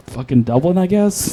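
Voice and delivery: quiet, hesitant answer rising at the end; unsure guess. Retold or imitated. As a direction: mumble it like you're making it up. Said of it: "you don't say, "I guess".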